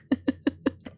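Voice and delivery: breathy, voiceless chuckle; soft laugh without voice; relieved laugh. Real, not acted. Player just out of the fire trap, laughing.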